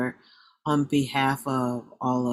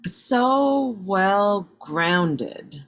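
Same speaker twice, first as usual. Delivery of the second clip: very slow, drawn-out, higher praise; heartfelt affirmation; 5 semitones higher, 4 dB louder, much slower than usual. Real, not acted. Host affirms new mom's sharing, slowly and admiringly. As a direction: stretch every word in admiration.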